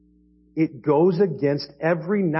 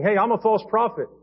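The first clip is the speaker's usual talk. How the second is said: a hammed-up shout, higher; mock yell; 7 semitones higher than usual. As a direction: shout it like a proud false prophet announcing himself. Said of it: "if he comes to you yelling".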